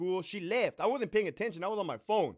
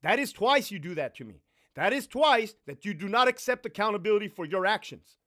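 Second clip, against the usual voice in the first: stern scold; 3 semitones higher, 4 dB louder than usual. Retold or imitated. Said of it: "I said".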